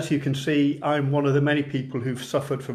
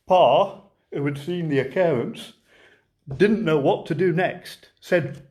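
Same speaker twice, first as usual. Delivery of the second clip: light Lancashire lilt, reciting a comic monologue; a gentle Lancashire storyteller reading a verse tale. Acted. Poet reciting The Lion and Albert to online folks, mild Lancashire lilt. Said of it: "I'll try and get my best Lancashire voice on for you".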